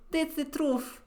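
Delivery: put-on flat Russian-accented assertion. Witness swearing to the court in a Russian accent. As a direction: insist on it in a thick Russian accent. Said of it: "she doesn't have a Russian accent".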